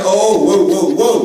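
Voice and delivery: firm mock-alarmed halt; alarmed interjection. Uncle interrupts kids calling a mother names, alarmed halt. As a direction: cut in to stop the talk, in mock alarm. Cutting in on child's shocking remark.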